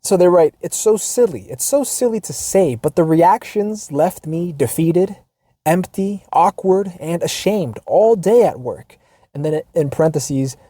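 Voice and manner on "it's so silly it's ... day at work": reading aloud. Acted. Reading viewer's letter aloud.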